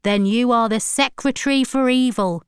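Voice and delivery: lightly voiced stern accuser; lightly voiced Ryan Tops. A narrator's reading. Preacher condemning granddaughter over the phone, mildly stern. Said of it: "said Ryan Tops".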